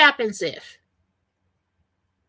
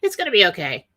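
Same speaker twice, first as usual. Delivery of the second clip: calm knowing; 6 semitones lower, much faster than usual. Retold or imitated. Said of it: "sit back with a smile on your face".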